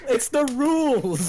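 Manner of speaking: slow, drawn-out "It's the rules"; insistent. Acted. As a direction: lay down the law, slowly and high.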